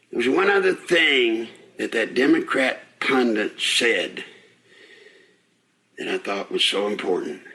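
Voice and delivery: winded from walking; puffing between words while walking; out of breath. Real, not acted. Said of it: "Sorry about being out of breath".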